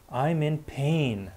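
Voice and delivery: slow anguished wail; miserable cry. A narrator's reading. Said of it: "cried miserably".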